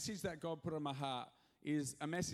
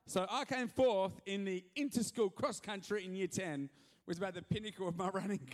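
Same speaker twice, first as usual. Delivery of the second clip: mock-proud boast; 3 semitones higher, 5 dB louder than usual. Pastor jokes about his running career, mock pride. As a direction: brag it like a trophy. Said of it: "mock-proud boast".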